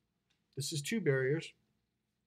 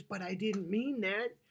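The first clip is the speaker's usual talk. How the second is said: slow, higher-pitched retold objection; mock protest; 6 semitones higher, slower than usual. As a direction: imitate a woman protesting, high and drawn out. Woman protests in retold argument.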